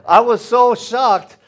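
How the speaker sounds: shocked. Real, not acted. Preacher recalls kids' response.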